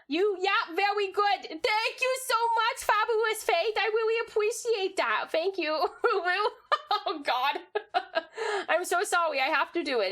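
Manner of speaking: high, babyish put-on squeak; baby Takubu voice. Vash's redeem makes her talk as baby Takubu, high and babyish. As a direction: coo it like a tiny baby creature. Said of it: "now we gotta talk like this".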